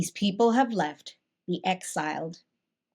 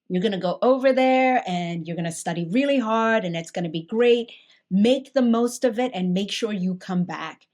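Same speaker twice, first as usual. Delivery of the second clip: lightly voiced dad, louder and emphatic; encouraging dad; 2 semitones higher, 5 dB louder than usual. Retelling dad's send-off before college, mildly emphatic encouragement. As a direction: imitate a parent's pep talk, mildly pushed.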